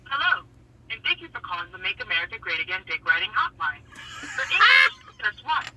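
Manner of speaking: automated hotline menu voice; robotic phone menu recording. Acted. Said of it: "the one they really wanna hear is this".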